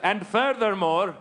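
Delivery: slow, lofty mock press statement; mock pompous spokesman. Taliban spokesman claiming the failed bombing, slow and pompous. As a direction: deliver it like a solemn spokesman, slowly.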